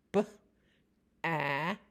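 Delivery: B-at with the b split off from at; segmented. Shown as a demonstration. Teacher breaking bat into sounds for a child. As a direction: separate the b sound before at. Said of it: "Try bat".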